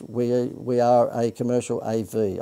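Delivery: slow, puzzled, word by word; slow puzzled repeat. Real, not acted. Presenter puzzles over a viewer's question, slow and baffled. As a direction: spell it out slowly as if it makes no sense. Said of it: "I don't know what that means".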